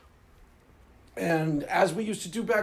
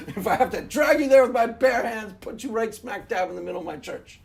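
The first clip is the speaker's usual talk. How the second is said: ordinary delivery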